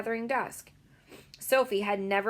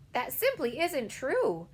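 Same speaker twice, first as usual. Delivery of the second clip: angrily; 6 semitones higher, slower than usual. A narrator's reading. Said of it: "Sophie cried angrily".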